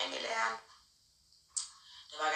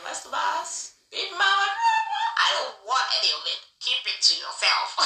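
dismissive brush-off; 6 semitones higher, 5 dB louder than usual. Retold or imitated. Brushing off the boyfriend.

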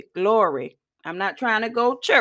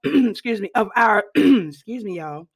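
throat-clearing mid-sentence. Real, not acted. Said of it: "clears throat".

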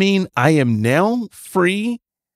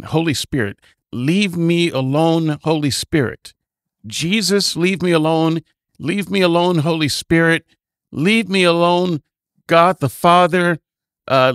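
mock incantation. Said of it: "added something to the incantation".

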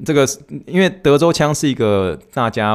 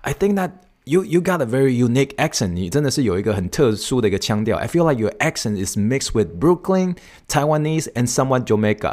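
New York friend; 4 semitones higher than usual. Retold or imitated. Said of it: "纽约的一个朋友就说".

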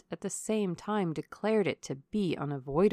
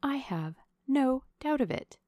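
high, breathy whisper; whispered agreement; 6 semitones higher, 3 dB louder than usual. A narrator's reading. Young lady agreeing privately with her suitor, whispering. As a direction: whisper back with firm conviction. Marianne answering a private aside.

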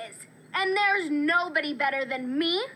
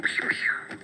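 whispered pew pew; 3 dB quieter than usual. Acted. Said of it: "It's a new catchphrase".

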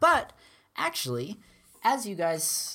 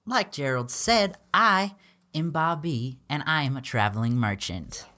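a loud, higher travelling salesman pitch; loud merchant; 4 semitones higher, 5 dB louder than usual. Acted. Merchant Bob B pitches wares to the party, loud and eager. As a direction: hawk your wares to the travelers. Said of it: "he's like".

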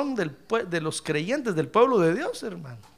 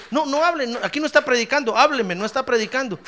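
lightly voiced wife, slightly raised pitch; complaining wife; 5 semitones higher, faster than usual. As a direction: imitate a wife's mild protest. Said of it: "mi esposa me dice".

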